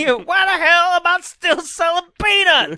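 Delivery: high, loud whiny vendor; stadium vendor hawking. Pretend. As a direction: cry out as the vendor. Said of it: "Peanut Man".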